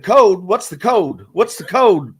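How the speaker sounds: a mild mocking imitation of the roommate; mock Pittsburgh roommate. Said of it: "he would make fun of me".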